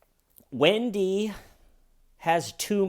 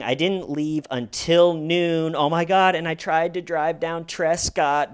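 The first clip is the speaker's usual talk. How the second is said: loud rambling mimic of Wendy; 3 semitones higher, 5 dB louder than usual. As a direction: gush the story too fast to be believed. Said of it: "her first official answer is".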